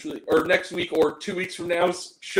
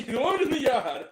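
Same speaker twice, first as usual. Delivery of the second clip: put-on Boston accent; 7 semitones higher than usual. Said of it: "It's Angry Grant time".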